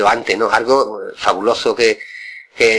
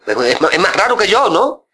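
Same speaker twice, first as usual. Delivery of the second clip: mock peeved uncle; 7 semitones higher than usual. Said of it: "Decía, envenenado".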